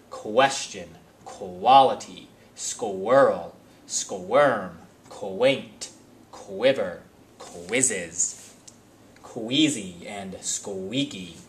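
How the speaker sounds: teacher overpronouncing the "kw" blend for the class; exaggerated kw sound. Shown as a demonstration. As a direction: stretch the "qu" of each word into a clear, separate "kwa". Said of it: "I'm doing it to emphasize the kwa".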